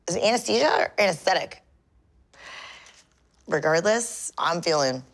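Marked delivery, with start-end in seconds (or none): 4.4-5.0 slurred from numbing; numb mouth. Real, not acted. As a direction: talk with a numb loose lip. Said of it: "I know I'm talking funny right now".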